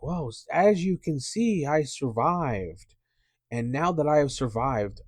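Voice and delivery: mock sermon. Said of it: "I'm doing, like, one of those sermons".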